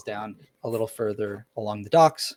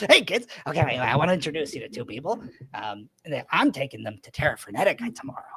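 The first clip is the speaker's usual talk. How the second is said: a lightly raised cheerful dad voice; badger dad voice; 3 semitones higher, faster than usual. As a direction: chat to the kids brightly and fast. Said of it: "and he goes".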